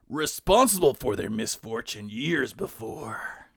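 dramatic trailer narrator; movie trailer voice. Acted. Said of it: "Trailer voice".

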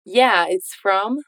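slow, rising on "Yeah"; slow model line. Shown as a demonstration. Teacher drills the answer slowly for repetition. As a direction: drill it slowly in two parts. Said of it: "Bora lá".

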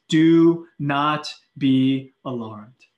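slow, drawn-out calming words; slow reassurance. Acted. Preacher quoting Jesus calming his disciples, slow. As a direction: stretch it out to soothe. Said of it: "he says".

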